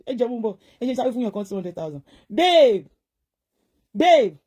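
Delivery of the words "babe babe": loud, raised call to a partner; loud, falling one-word holler. Real, not acted. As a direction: shout for your partner's attention. Calling out to partner.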